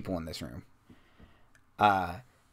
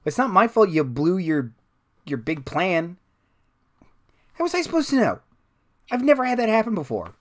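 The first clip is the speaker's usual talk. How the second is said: high-pitched, louder, defensive protest; second overheard voice; 8 semitones higher, 5 dB louder than usual. Acted. Villain blamed by a partner for a blown plan, high indignant voice. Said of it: "And another voice says".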